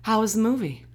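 sweetly menacing question; icy sweet. Retold or imitated. Friend imagining greeting boyfriend with apartment burning, icy sweet. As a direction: ask it sweetly as the place burns. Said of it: "I would have gone".

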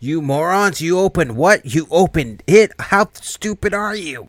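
high, loud furious boss; angry scolding. Retold or imitated. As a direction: chew them out as the angry boss. Boss Bert scolding workers.

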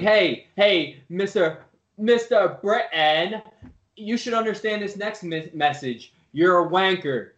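high, loud jeering rant at Mister Britain; mocking taunt. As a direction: taunt them like a heckler. Taunting the British hosts.

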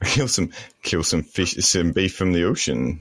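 slow, mock Canadian accent; Canadian accent played for a laugh; put-on Canadian accent. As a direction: drawl it in a joke Canadian accent. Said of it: "What was that accent?".

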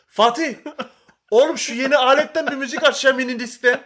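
retold calling out. Older man calling the café owner for music, mock shout. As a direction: imitate hollering to the owner, without full volume. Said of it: "schreit er so den Besitzer".

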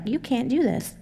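soft, small doubting voice; a quiet nagging voice in the head; murmured self-doubt; tiny inner voice. Retold or imitated. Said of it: "this tiny voice in my head, being like".

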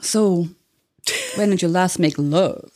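mock suave come-on; a lightly hammed-up suave line; suave seducer. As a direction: imitate a smooth lover, voice dropped slightly.

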